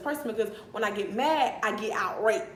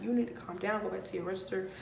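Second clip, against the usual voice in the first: softer retold telling-off; mildly calming; 2 semitones lower, 5 dB quieter, faster than usual. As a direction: lightly imitate him talking someone down, quietly. Retelling his calming reply.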